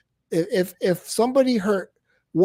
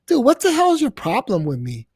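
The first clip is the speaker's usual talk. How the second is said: much higher, exasperated yell; exasperated outburst; 6 semitones higher than usual. Real, not acted. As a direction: throw the question at him in disbelief. Venting at the streamer.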